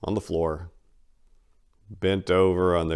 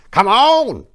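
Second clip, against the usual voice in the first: high, loud whooping come on; triumphant hoot; 12 dB louder than usual. Acted. The old man whooping in triumph at Maria's hint. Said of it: "hooted in filthy triumph".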